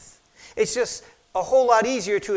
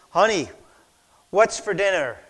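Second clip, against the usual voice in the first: calling out louder across the kitchen; 5 dB louder than usual. Retold or imitated. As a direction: raise the voice to be heard. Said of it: "So finally he goes".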